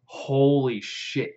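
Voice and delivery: slow, drawn-out shock; stunned disbelief. Acted. Orc just had his ear sliced off, stunned and slow. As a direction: stretch both words out, aghast.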